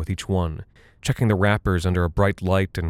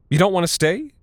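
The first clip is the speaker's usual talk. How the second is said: much higher, loud wailing plea; howling mother; 11 semitones higher, 3 dB louder than usual. Acted. Mother howling at her children as they hide, loud and high. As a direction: howl the question at the kids. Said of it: "she howled at us".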